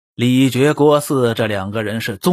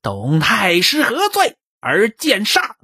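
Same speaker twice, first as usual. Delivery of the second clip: higher, slow accusing cry; mild shout; 7 semitones higher than usual. A narrator's reading. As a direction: demand it of him with sword drawn. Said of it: "拔剑就在那喊呢".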